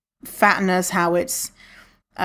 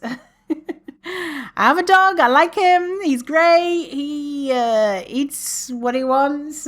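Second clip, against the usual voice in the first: laughing; 7 semitones higher, much slower than usual. Real, not acted. Giggly dog-owner aside.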